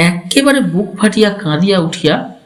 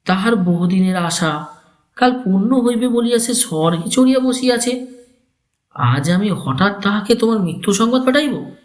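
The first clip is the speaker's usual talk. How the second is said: put-on pleading old uncle; 6 semitones higher than usual.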